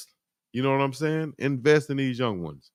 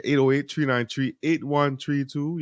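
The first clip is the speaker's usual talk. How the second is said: higher, drawled local way of saying numbers; local slang read; 4 semitones higher than usual. Shown as a demonstration. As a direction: say it like folks out here. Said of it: "Or as we might say out here".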